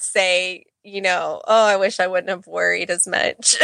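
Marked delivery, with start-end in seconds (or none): 1.5-3.6 laughing through tears; a teary laugh in the voice; shaky sigh, half laughing. Real, not acted. Mom tearing up retelling advice.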